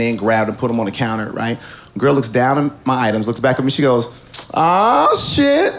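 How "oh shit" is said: high startled oh shit, half laughing; mock surprised cashier. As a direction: gasp it out high like a shocked cashier. Cashier's surprised reaction voiced.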